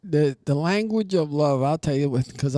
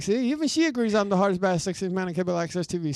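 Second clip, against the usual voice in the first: mock braggart; 3 semitones higher, 6 dB louder, faster than usual. Boasting, playing a TV persona.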